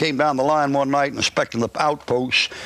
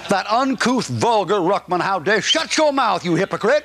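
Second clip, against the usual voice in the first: mocking outraged critic; 5 semitones higher than usual. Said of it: "folks get so upset".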